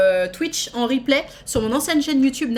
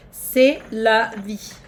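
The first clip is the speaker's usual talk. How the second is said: slow resigned; 5 dB louder, much slower than usual. Pretend. Resigned drawl repeat.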